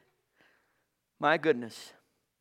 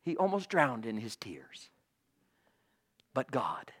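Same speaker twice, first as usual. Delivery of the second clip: hushed, lower dramatic whisper; 6 semitones lower, 7 dB quieter than usual. Real, not acted. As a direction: drop to a whisper to draw them in. Dramatic hush in sermon.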